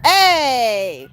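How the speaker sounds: stern but playful telling-off; scolding a pet. Real, not acted. Owner telling off Spike for picking on Squirt, in a mock stern scold.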